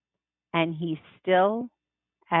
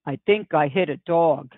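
Daddy, low and stunned; 4 semitones lower than usual. Acted. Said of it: "And Daddy says".

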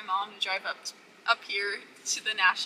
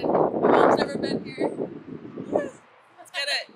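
excited; 4 semitones higher, 6 dB louder than usual. Real, not acted. Arriving excited at entrance.

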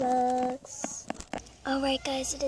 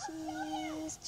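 very high sung-out cheese; cheese for photo; 8 dB quieter than usual. Pretend. A fake pop star posing for a worker's photo, chirping high.

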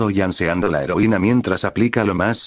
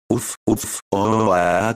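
held-back groans; much slower than usual. A narrator's reading. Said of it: "contentenía sus gritos".

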